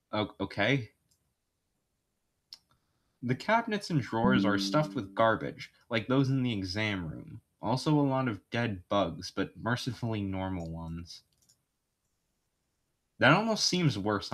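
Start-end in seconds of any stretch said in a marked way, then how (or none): 3.2-11.2 measured game master narration. Acted. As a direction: describe the scene to the player.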